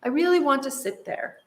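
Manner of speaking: put-on high, gentle storybook child asking politely; calm request. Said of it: "Hunter said calmly to his brother".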